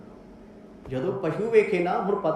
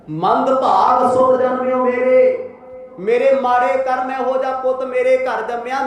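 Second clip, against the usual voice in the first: bitter father's lament; 5 semitones higher, 5 dB louder than usual. Acted. Father bitterly lamenting his son before the villagers. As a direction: curse your own luck out loud. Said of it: "ਇਹੋ ਜਿਹੇ ਕੌੜੇ ਕੌੜੇ ਬੋਲ ਪਿਤਾ ਨੇ ਬੋਲੇ".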